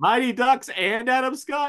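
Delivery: very high, loud, shrill shout. Naming a movie's cast to someone right next to you, yelling. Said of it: "Why are you yelling? You're right next to me".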